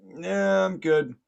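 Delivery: high, loud acted brush-off; yelled refusal. Man in pond refuses officer, yelling back. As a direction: call back a no thanks.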